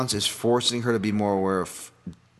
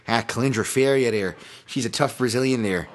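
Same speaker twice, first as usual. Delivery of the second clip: lightly voiced Chicago tough guy; a hint of a Chicago movie-cop impression; Dennis Farina. Podcaster introduces a Brazilian fighter as a film actor would, lightly mimicked Chicago voice. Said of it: "like, Dennis Farina".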